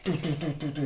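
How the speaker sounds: quick soft dums for smashing glass; mimicking a hammer; imitated banging. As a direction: tap out the hammer blows. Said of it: "just going dum".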